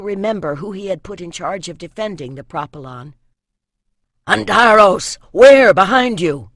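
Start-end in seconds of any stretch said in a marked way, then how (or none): 4.3-6.5 loud battlefield shout; yelled warning. A narrator's reading. Archer warning Antaros of enemies behind, shouting. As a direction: yell it across the courtyard. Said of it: "he yelled".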